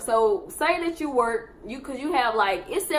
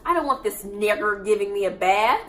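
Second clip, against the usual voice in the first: put-on old racist lady. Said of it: "Y'all know what she tell me?".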